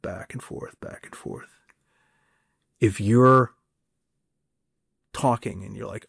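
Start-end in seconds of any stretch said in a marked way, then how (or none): 0.0-1.5 fading whisper. Shown as a demonstration. Coach illustrating back-and-forth turn taking, fading to a whisper. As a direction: repeat it softer each time until it's a whisper. Tennis rally image, fading out.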